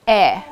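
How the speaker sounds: "eh" short, loud and on its own; isolated vowel sound. Shown as a demonstration. Teacher leading everyone in the vowel sound, a loud clear "eh". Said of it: "let's say".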